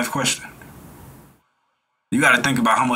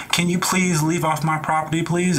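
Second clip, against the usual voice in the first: overly polite ask; 4 semitones higher than usual. Retold or imitated. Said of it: "what you gonna".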